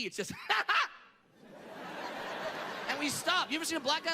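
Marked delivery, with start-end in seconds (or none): 1.5-2.8 quick cut-off titter; short stifled laugh. Shown as a demonstration. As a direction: laugh briefly, then stop dead. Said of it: "laugh like we have A D D".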